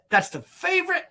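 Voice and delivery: grunted through clenched teeth; through gritted teeth. Pretend. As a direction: talk through your teeth, jaw tight. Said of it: "grunting and talking through my teeth".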